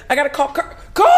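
high, laughing replay of panic; mock panic. Shaking on set, needing to warn Kirk, mock panicked. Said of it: "So I'm shaking".

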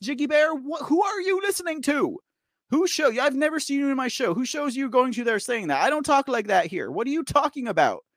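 pushing back hard at a commenter; going hard. Real, not acted. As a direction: challenge them with real exasperation. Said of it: "I'm kinda going hard right now".

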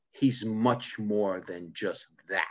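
slow, drawn-out retort; measured put-down, each word stretched; dismissive. Retold or imitated. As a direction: imitate a dismissive woman, taking it slowly. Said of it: "looks at him dismissively and says".

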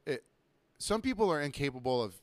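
normal talking voice

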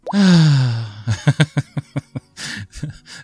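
long loud real sigh of annoyance; exasperated sigh. Real, not acted. Reader sighs after the annoying story, fed up. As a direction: let out a drawn-out fed-up sigh. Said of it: "That was as annoying to read".

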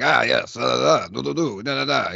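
lightly put-on international stage accent; theatrical, vaguely foreign accent, lightly done; Dave Thomas. Podcaster mimicking an actor's not-very-Russian accent, lightly theatrical international accent. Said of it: "almost an international accent".

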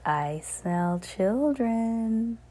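put-on slow, savoring I smell children; hungry witch, very slow and savoring; drawn-out witch line. Shown as a demonstration. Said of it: "Or maybe she said".

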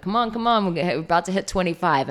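coach's push. Retold or imitated. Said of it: "I'm like".

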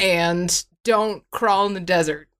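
stiff memorized speech. Pretend. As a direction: recite it like memorized lines. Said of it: "I memorized it really well".

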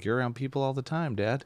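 high-pitched, teasing objection; mock protest to Dad. Retelling own reply to dad.

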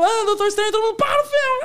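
very high, loud mock screaming; crowd uproar. Audience yells as the film starts mid-emergency, high frantic mock shouting. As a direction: imitate a whole audience yelling at once.

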